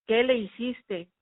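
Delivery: father and brother shouting at the daughter; shouting accusation. Retold or imitated. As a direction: hurl the question as a blame. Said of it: "gritándome a mí".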